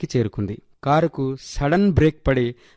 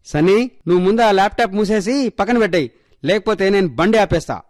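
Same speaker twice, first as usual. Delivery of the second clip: put-on father warning the kids, pitch raised; firm warning; 6 semitones higher than usual. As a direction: lay down a firm threat to the children. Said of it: "పిల్లల్ని గట్టిగా హెచ్చరిస్తూ". (గట్టిగా హెచ్చరించే నాన్న)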